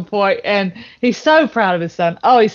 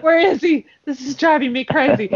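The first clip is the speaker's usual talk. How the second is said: worried dad; 5 semitones higher than usual. Retold or imitated. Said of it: "And he's like".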